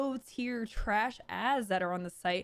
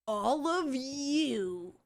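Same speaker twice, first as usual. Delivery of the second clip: very slow, drawn-out robotic parody; mock AI voice; much slower than usual. Streamer mimicking the CEO's slow robotic line. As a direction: stretch each word like a stiff AI. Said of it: "She sounds like A I".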